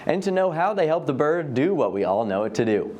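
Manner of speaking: lively scripted TV host read; upbeat show-host link with lifted pitch swings; presenter link. Acted. Host thanks the raptor center and introduces a special, presenter link.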